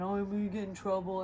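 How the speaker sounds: mock fretful ex voice; sarcastic imitation of his complaining; mocking whine. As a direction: make fun of his worry. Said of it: "he got pissed off".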